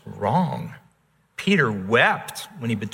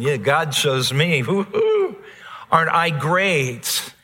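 a smug "woo-hoo" jumping way up in pitch; mock boast; 2 semitones higher than usual. Preacher mocks a boastful believer in heaven, with smug glee. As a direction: lightly play the self-satisfied believer cheering himself. Mocking a boastful saved person.

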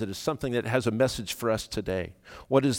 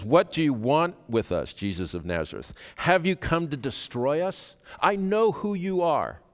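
raised, challenging cry, climbing higher; spirit crying out; 4 semitones higher than usual. Acted. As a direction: cry out in accusation, building to a high last line. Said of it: "cries out directly at Jesus".

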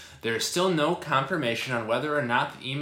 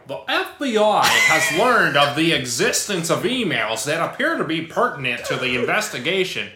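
put-on weird English accent; 3 semitones higher, 7 dB louder than usual. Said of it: "a weirder English accent".

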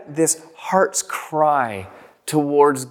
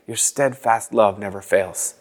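1 meditative repeat; 5 semitones lower than usual. Shown as a demonstration. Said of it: "you repeat it again".

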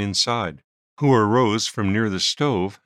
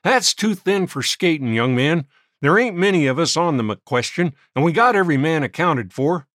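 scornful judge; 6 semitones higher, 5 dB louder than usual. A narrator's reading. Judge dismissing Smoke's claim.

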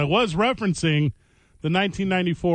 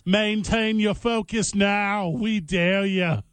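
slow dramatic announcer; 2 semitones higher, slower than usual. Pretend. Mock announcer taunt.

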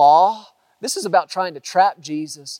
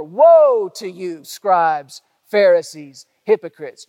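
louder, slow woe; repeated woe; 6 dB louder, slower than usual. Retold or imitated. Preacher repeating Jesus' rebuke to the hypocrites, loud and slow. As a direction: lean hard into each woe. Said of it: "he says it over and over".

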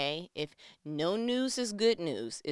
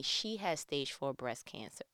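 hushed whisper; 6 semitones lower, 6 dB quieter than usual. Real, not acted. Telling viewers about her friend's cancer, whispered. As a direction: drop to a whisper, as if it can't be said aloud.

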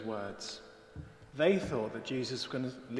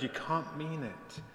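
slow, higher note of dismay; cried in protest; 4 semitones higher, 3 dB quieter, slower than usual. A narrator's reading. Frightened deer disbelieves the shepherd, dismayed cry. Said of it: "she cried".

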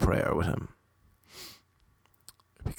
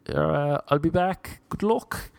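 buddy's real voice; 8 semitones higher than usual. Retold or imitated. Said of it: "he wasn't American, but he was like".

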